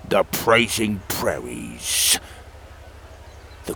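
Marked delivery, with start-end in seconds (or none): 0.1-2.2 slow, tight, holding back irritation; suppressed frustration. Acted. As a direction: bite down on her frustration, slowly. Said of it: "struggled to suppress her frustration".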